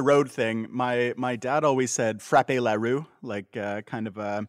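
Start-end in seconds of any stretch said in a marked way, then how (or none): 2.2-3.1 mock French phrase; fake French. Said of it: "fake, fake French joke".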